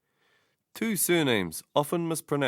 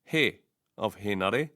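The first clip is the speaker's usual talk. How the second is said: "Henare" stressed on HE; stress on first vowel; 2 semitones lower than usual. Shown as a demonstration. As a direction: say "Henare" as HEH-na-re. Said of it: "stress should be on the first vowel".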